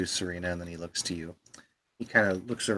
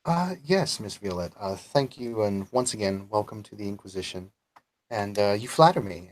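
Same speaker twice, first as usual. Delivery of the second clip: stiff, polite commander; formal welcome with small hesitations. Acted. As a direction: speak up with official courtesy. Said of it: "in a very formal tone".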